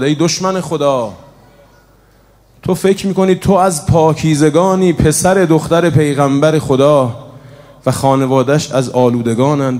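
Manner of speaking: Burayr calling out. Acted. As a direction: cry out in rebuke at the enemy. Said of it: "اینجا بریر صدا زد". (فریاد اعتراض آمیز)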